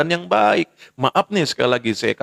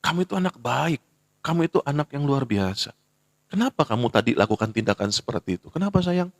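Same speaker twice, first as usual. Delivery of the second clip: tender mother. Retold or imitated. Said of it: "Panggil dia".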